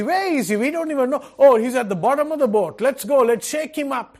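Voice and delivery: a lightly voiced grumbling crowd; mocking complainers. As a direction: act out the whining disciples. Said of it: "It was like".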